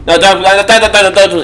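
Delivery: urgent pleading. Real, not acted. Begging friend not to play.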